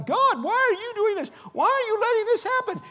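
high, strained, loud mock protest; hammed-up believer yelling at God over the harvest. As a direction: throw a hammed-up tantrum at heaven. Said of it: "yelling at God".

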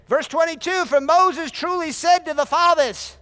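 high, loud, slow proclamation; full-force scripture preaching; preached scripture reading. Acted. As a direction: read it like a warning from the pulpit.

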